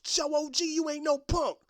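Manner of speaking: high, loud hype; friends egging on. Retold or imitated. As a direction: cheer your boy into a fight. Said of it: "his friends are just".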